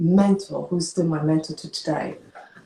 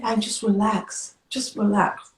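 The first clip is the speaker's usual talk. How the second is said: higher-pitched, measured reassurance; soothing doctor; 4 semitones higher, slower than usual. Retold or imitated. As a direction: gently talk an upset patient down, as retold. Doctor soothing her, retold.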